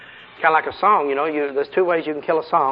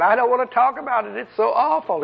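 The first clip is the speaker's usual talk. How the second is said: high, whimpering demon voice; pitiful sob-edged demon, imitated; mock crying demon; 8 semitones higher than usual. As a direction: act out a demon close to tears. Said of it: "and he started crying".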